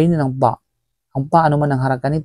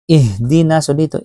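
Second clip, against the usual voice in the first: normal talking voice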